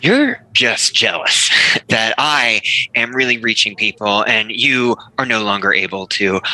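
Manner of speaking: mocking, with a laugh; laughing taunt. Mocking rival after she came out.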